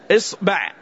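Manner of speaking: إصبع said "as-ba'", a in both syllables; fatha on both. Shown as a demonstration. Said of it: "نفتح الباء معه".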